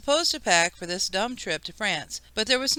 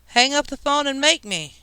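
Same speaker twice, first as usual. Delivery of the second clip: higher-pitched bratty retort; defiant shout back; 6 semitones higher than usual. A narrator's reading. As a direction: throw it back as a defiant kid's dare. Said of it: "Kevin shouted back".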